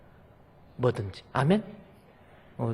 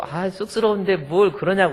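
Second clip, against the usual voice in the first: shy pastor; 7 semitones higher, 6 dB louder than usual. Retold or imitated. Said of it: "그랬더니 뭐".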